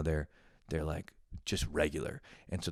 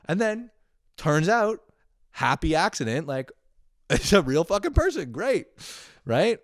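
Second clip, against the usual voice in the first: much higher and louder, thrilled and half laughing; excited; 11 semitones higher, 7 dB louder than usual. Real, not acted. Telling viewers the fan turned out real, excited and high. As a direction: burst out with delighted surprise.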